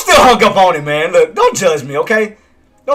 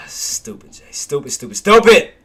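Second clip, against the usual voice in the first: self-scolding building; slower than usual. Real, not acted. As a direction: berate yourself, growing to a snap. Scolding himself.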